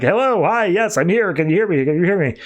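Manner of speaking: high-pitched checking of a dead line; acted eager radio call, starting high; calling over comms. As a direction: imitate someone trying to get heard on comms.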